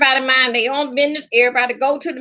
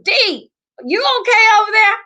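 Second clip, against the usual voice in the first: higher, louder call across the yard; neighbor calling out; 8 semitones higher, 4 dB louder than usual. Retold or imitated. Neighbor yelling across backyard to her, calling out. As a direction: call over the fence to check on her.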